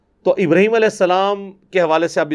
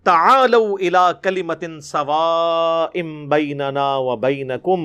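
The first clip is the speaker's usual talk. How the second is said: measured tilawat with stretched vowels; Quran recitation; slower than usual. Acted. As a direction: recite the verse melodically, slowing after the invocation. Recites the verse before explaining it. (قرآنی آیت کی ٹھہر ٹھہر کر تلاوت)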